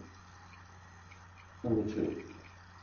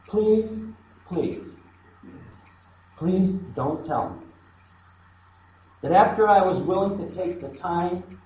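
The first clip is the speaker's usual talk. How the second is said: pleading Jesus. Pretend. Jesus on the cross begging the listener, mild pleading cry. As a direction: beg like a wounded savior, rising and falling. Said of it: "crying out from the cross".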